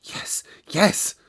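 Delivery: breathy whispered yes; hushed whispered answer. Acted. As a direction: whisper it solemnly. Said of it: "he almost whispered his answer".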